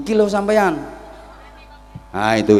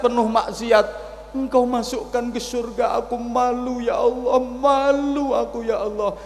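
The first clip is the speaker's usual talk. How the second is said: tearful prayer; 11 semitones higher, 4 dB louder than usual. Acted. Repentant sinner crying out to God in shame, sobbing. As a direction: beg forgiveness through sobs.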